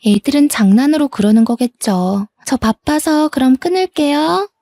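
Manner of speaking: airy voice climbing high at the end; dismissive sister-in-law. Acted. Sister-in-law ends the call, breezily dismissive. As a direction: brush her off and wrap up.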